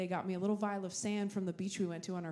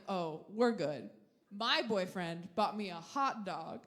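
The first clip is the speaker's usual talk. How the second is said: mock dreamy; much slower than usual. The speaker gushing to her sister about the hot dog, slow and dreamy. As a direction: savor it like a grand romance.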